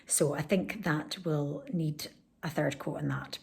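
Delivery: soft unvoiced whisper. Real, not acted. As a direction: whisper it quietly. Quiet talk while painting.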